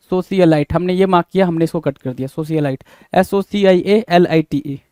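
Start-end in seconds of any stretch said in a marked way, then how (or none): 3.1-4.8 letters spelled slowly and evenly; slow spelling out. Shown as a demonstration. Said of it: "सोशियलाइट हो गया". (धीरे-धीरे spelling बताना)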